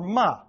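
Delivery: MA falling sharply; fourth tone. Shown as a demonstration. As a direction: drop the pitch through ma. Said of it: "the fourth tone".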